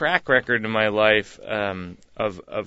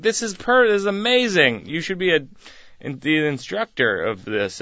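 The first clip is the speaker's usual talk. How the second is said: mock amazed siblings; 5 semitones higher than usual. Siblings mock praising his breakdancing.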